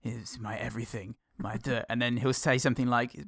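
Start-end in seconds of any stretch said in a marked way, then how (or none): 0.0-1.8 softly imitated gritty monologue; understated mock-noir narration; brooding monologue. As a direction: brood quietly, as if narrating to yourself. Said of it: "a lot of the monologues are sort of".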